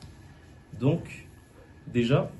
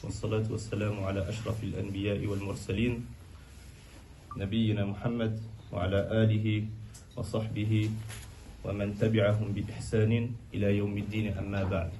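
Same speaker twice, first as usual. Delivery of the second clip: measured, even-toned Arabic formula; formal opening invocation; 2 semitones lower, 4 dB quieter, much faster than usual. Real, not acted. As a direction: recite the ritual opening fast and evenly. (افتتاح رسمي بالبسملة والصلاة على النبي)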